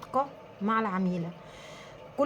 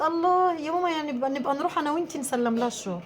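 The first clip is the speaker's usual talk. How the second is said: put-on higher, quick delighted kid's voice; excited child; 4 semitones higher than usual. Daughter begging her mother to visit the customer, eager and fast. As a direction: gush like an eager little girl.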